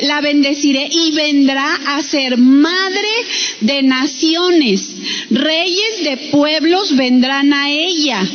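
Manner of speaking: measured, slowed Bible reading; scripture reading. Acted. Preacher reading God's words to the congregation, deliberate scripture reading. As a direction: read the verse out deliberately, with pauses.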